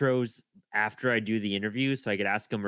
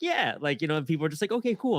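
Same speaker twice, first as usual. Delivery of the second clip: mock nod; 5 semitones higher than usual. Miming nods to guests.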